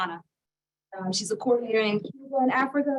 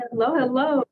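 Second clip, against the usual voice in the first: calling out; 5 semitones higher, 7 dB louder, slower than usual. Real, not acted. Calling to guest on bad line.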